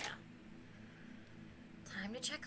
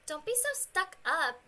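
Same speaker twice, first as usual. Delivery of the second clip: put-on bubbly sorority girl; 5 semitones higher, 5 dB louder than usual. Bratty girl retort.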